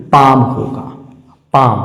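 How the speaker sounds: पाम said as "paam", long a, no l sound; correct pronunciation. Shown as a demonstration. Teacher to students on silent l, clear पाम with no l. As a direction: give पाम cleanly as "paam", the l left silent. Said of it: "इसका सही pronunciation".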